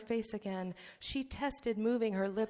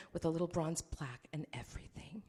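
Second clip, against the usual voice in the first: whispered aside; 3 semitones lower, 6 dB quieter than usual. Acted. Artel trails off mockingly.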